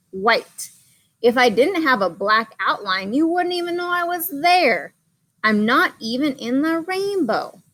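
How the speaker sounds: a forgotten crayon pleading to be seen; a hint of sad longing, read to children; lonely White Crayon. White Crayon's letter read aloud.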